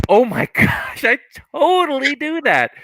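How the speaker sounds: high, laughing "I totally do that"; amused disbelief; laughing realization. Real, not acted. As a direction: crack up at yourself. Realizing own habit, laughing.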